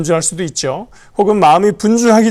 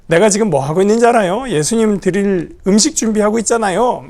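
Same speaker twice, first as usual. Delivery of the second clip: showing off credit; 3 semitones higher than usual. Acted. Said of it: "생색은 있는 대로 내고".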